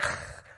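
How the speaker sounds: imitated wordless hushing breath; hushing noise. Moi listeners trying to silence the beggar, hushing noise. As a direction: push out a rough hushing breath. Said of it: "They were going".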